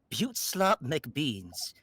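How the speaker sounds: slow, drawn-out character voice. Pretend. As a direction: savor the name slowly. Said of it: "this is the voice of one of my favorite characters".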